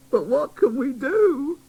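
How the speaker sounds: fairy scolding the new doll, high; tattered fairy. Acted. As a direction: worry at him. Griselda worried.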